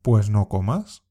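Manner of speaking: "Pues no comas." with the stress on "no" and a rising end; dismissive reply. Shown as a demonstration. Teacher modelling a dismissive comeback for learners to imitate. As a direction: shrug it off, take it or leave it. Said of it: "Intenta imitar la entonación".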